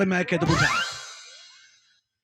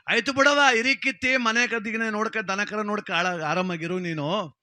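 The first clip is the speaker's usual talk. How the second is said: loud coaxing; 4 semitones higher, 4 dB louder than usual. Acted. Coaxing younger wife loudly.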